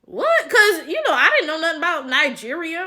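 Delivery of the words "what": squeaked high in disbelief; a shocked, much higher what; stunned what. Retold or imitated. Told of a kidnap risk, a stunned high what. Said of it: "I remember I was like".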